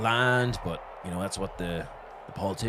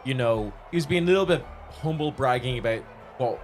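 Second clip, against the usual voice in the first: quasi-practice speech; 3 semitones higher than usual. Retold or imitated. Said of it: "he goes into a quasi-practice speech".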